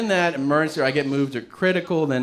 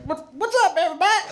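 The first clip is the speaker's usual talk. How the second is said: high, swaggering hello to the whole bar; drunken greeting; faster than usual. Retold or imitated. Drunk guy greeting the bar, high and cocky. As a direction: burst in like the life of the party.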